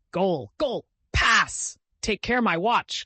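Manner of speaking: high, loud playful shouting; excited cry. A narrator's reading. Vicar calling to the boys during the romp, high and loud. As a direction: call out over the splashing game. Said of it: "cried Mister Beebe".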